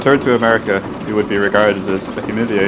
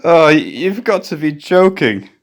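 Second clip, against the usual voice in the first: higher, slow disbelief; can't believe what he's hearing; incredulous; 7 semitones higher, 3 dB louder, slower than usual. Acted. Chief to the raving seaman, incredulous.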